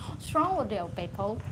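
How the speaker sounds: mock upper-class British English; a hint of posh British; posh British accent. Speaker mimicking a posh family, mild British accent. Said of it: "If you have that kind of accent".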